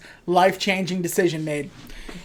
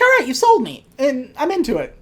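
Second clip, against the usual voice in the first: sold; 7 semitones higher than usual. Retold or imitated. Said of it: "It's like".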